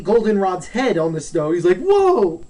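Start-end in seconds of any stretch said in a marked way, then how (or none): 1.8-2.4 high, loud startled cry; acted shock. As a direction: yelp as if caught off guard. Retold shock at severed head.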